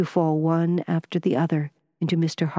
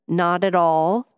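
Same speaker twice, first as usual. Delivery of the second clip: almost testily; 4 dB louder, slower than usual. A narrator's reading. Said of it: "almost testily".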